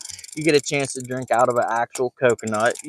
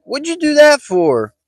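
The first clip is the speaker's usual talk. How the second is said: much higher, louder angry yell; shouted what-the-heck at his kid; mad outburst; 13 semitones higher, 5 dB louder than usual. Retold or imitated. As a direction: yell at the son in disbelief. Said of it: "I'm like".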